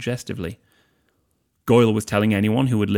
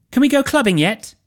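put-on dazed party girl; 9 dB louder than usual. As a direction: drift it out like she's high. Pansy's high voice.

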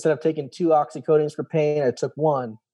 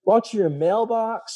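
mimicking the nurse; 9 semitones higher than usual. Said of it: "She's like".

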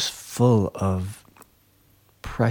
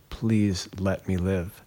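retold begging; 5 dB quieter, slower than usual. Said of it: "I'm sobbing and begging to God".

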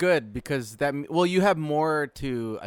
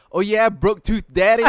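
put-on teasing kid; 6 semitones higher, 8 dB louder than usual. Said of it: "And he's like".

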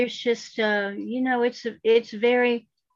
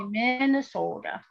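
put-on Minnesota accent; 3 dB quieter than usual. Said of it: "And that's how he said it".

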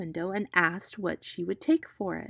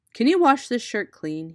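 calling out; 4 semitones higher, 8 dB louder than usual. Acted. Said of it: "he cried".

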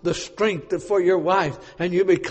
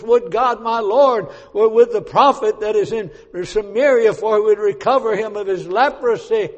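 reciting the plea; 4 semitones higher, 5 dB louder than usual. Retold or imitated. Reciting the girl's words.

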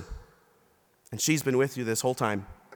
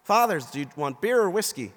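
mild mock holler, raised pitch; hollered offer; 4 semitones higher, 4 dB louder than usual. Tailgater to passing priests, hollering. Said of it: "This guy hollers".

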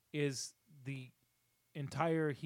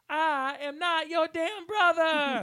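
high, loud, slow furious bark; drill sergeant yell; 13 semitones higher, 10 dB louder, much slower than usual. Retold or imitated. Host imitating the drill sergeant from the movie, yelling. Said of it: "And he goes".

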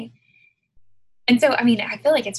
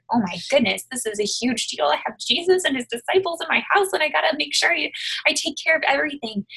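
Martha; 6 semitones higher than usual. Retold or imitated. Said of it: "where Martha's like".

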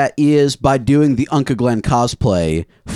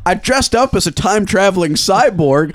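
proud retelling; 6 semitones higher than usual. Retold or imitated. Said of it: "And you're saying".

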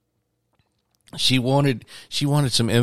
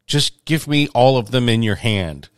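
put-on slow, higher, louder kid whine; complaining child; 4 semitones higher, 4 dB louder than usual. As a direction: drag it out like an impatient toddler.

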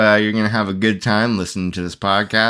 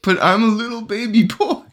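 put-on baby voice; 10 semitones higher, faster than usual. Playing baby.

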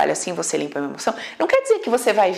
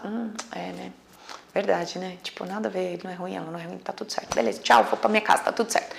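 much softer, settling down inwardly after the outburst; quiet calm self-talk; 3 semitones lower, 7 dB quieter than usual. Pretend. Person calming down after yelling at dad, quiet. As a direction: talk yourself down gently, almost under your breath.

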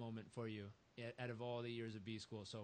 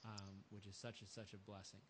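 much softer, tender and low; moved and soft; 3 semitones lower, 7 dB quieter than usual. Real, not acted. Host touched by the father story, soft and tender.

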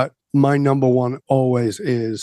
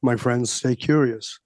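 signature sign-off; 3 dB quieter, slower than usual. Shown as a demonstration. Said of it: "at the end of every show, I say".

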